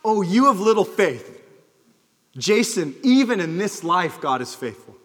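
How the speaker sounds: dead serious rebuke. Retold or imitated. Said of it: "he was dead serious".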